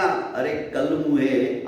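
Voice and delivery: "अरे कलमुहे" dragged out slowly with a falling tune; slow angry curse. Acted. Chaudharani curses Dagdu on her housewarming day, slow and heavy.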